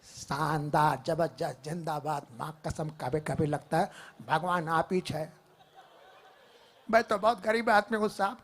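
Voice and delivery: light hint of a gritty actor; Nawazuddin impression. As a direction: grumble it like a small-town tough. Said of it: "Nawazuddin Siddiqui".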